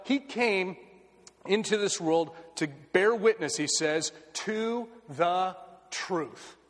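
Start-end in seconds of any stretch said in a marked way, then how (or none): 4.3-6.6 slow and drawn out. Real, not acted.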